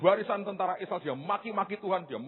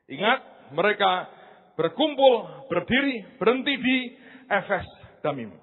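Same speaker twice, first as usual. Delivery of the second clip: slow emphasis; 4 dB louder than usual. Shown as a demonstration. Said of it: "saya jelaskan lagi".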